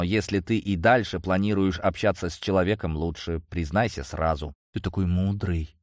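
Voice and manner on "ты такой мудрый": purring. Acted. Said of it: "промурлыкала Рыжуля".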